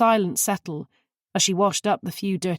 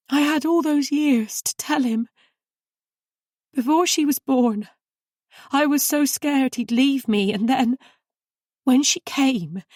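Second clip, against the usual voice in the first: higher and louder, tearful; sobbing confession; 7 semitones higher, 3 dB louder than usual. A narrator's reading. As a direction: pour it out through tears. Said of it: "she sobbed".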